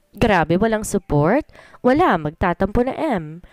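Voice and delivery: slow, playful fake pout; mock sulking. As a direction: pretend to be hurt, teasing. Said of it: "Kunwaring nagtatampong sabi ko".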